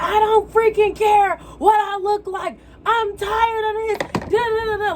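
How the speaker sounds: high-pitched, heated retort; fed-up outburst. Retold or imitated. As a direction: replay an angry comeback, voice pushed right up. Retold phone fight with dad.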